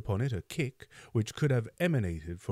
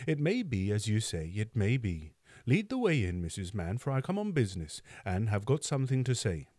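calmer tone. Acted. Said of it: "in a calmer tone".

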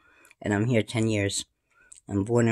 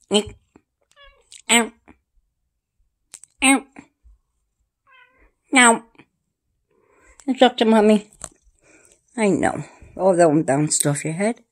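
pet voice; 11 semitones higher, 6 dB louder, slower than usual. Acted. Talking to pets in baby voice.

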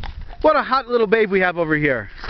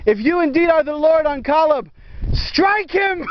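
mock prayer plea; 6 semitones higher than usual. Calling on God to strike.

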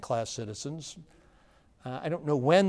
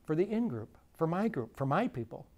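slow, pointed paraphrase; 4 semitones higher, 4 dB quieter than usual. Retold or imitated. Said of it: "he's saying".

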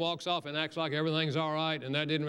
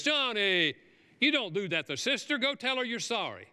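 a raised, higher scolding mother's voice; 6 semitones higher than usual. Retold or imitated. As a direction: call out sharply like a mom correcting her boy. Mother scolding child in story.

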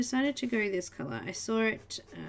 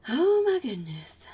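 shocked whisper; 3 semitones higher, 6 dB louder than usual. Real, not acted. Reading sad news in chat.

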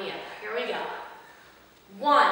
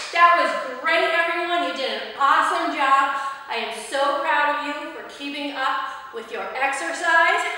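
excited praise; 4 dB louder than usual. Real, not acted. Praising after workout.

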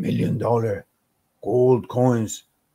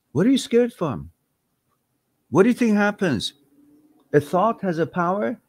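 exasperated rant; 5 semitones higher than usual. Real, not acted. Rants at a scared viewer.

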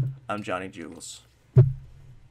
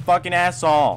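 angry curse; 6 semitones higher, 10 dB louder than usual. Real, not acted. Killed by another player.

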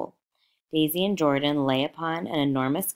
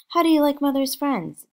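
much higher and louder, gushing; excited; 12 semitones higher, 7 dB louder than usual. Acted. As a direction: show the child off with delight. Daisy showing off her child.

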